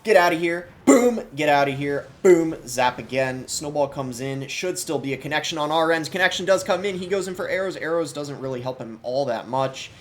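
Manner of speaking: loud, high-pitched esports caster hype; excited screaming. Real, not acted. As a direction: shout the play-by-play, punching out each big hit. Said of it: "I don't know why I'm screaming right now, or it sounds like I'm casting".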